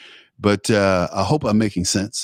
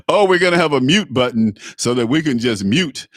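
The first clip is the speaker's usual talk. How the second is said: louder mocking quote; mock announcement; 3 semitones higher, 3 dB louder than usual. Commentator parroting the debate mute-button plan, mocking. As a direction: put on a loud, mocking voice for their plan. Mimics debate organisers' talk.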